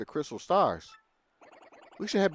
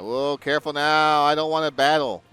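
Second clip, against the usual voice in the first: alarmed excited call; 6 semitones higher, 9 dB louder than usual. Real, not acted. Dodging an enemy in game.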